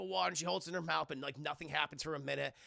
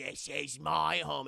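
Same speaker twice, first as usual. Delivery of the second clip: slow ghost claim; 3 semitones lower, much slower than usual. Retold or imitated. Ghost Bill voice.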